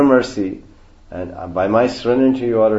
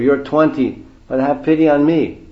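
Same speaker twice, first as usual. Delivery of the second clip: higher-pitched mock plea of an old man; hammed-up appeal for mercy; Advaita pleading for pity; 4 semitones higher, 3 dB louder than usual. Old devotee begging young master for mercy, mock pleading. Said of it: "Advaita didn't say".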